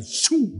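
quick, high imitated zoom; Roadrunner zoom. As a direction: imitate a cartoon character zipping off. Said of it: "I visualize the Roadrunner cartoon".

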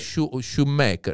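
"shoemaker" slowly, opening on a "sh" from S C I; slow, spelled-out "shoemaker"; Italian-style shoemaker. Shown as a demonstration. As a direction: say "shoemaker" slowly, sounding each part. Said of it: "they would pronounce it".

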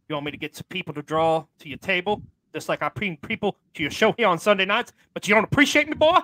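sulky, then flaring up; grumbling Ron. Acted. Ron grumbling at the host about autographs, put-on voice. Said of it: "He sounded pretty angry".

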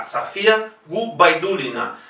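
Sofía as "Safía"; careful Sofía Gubaidulina, A in the first syllable. Shown as a demonstration. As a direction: model Sofía with unstressed O as A. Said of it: "se pronuncia igualmente A".

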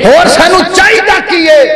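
high-pitched pulpit question; rhetorical preaching cry. Real, not acted. Preacher asking congregation what else we need, high declamatory question. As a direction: throw the question out high to the crowd.

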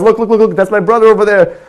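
pitched well up, eagerly calling friends to look; a tipsy big brother hooting at his friends to come look; excited pointing out. Acted. Drunk older brother pointing out his little brother to his friends, pitched high and excited.

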